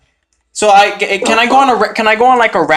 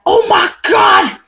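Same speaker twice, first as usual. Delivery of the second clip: high, slow mocking rap voice; mocking rapper; 13 semitones higher, slower than usual. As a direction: parody the mainstream rapper, drawn out. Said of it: "everyone focuses on the mainstream".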